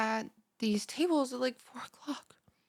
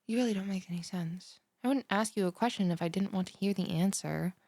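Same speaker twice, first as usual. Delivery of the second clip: normal talking voice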